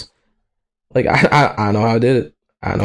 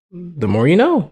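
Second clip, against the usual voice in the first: raised pitch, falling at the end; singsong discovery; 6 semitones higher than usual. Pretend. Just learned how to open a tab, singsong. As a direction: lilt it high like a slogan.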